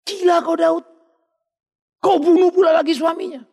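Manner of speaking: stern rebuke. Acted. Prophet rebukes David.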